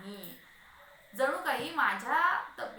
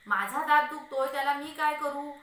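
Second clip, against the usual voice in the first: loud, higher-pitched retort; irritated protest; 4 semitones higher, 8 dB louder than usual. Acted. Husband answering his wife's scolding, irritated protest. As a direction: protest loudly as the one in pain. Husband snapping back at wife.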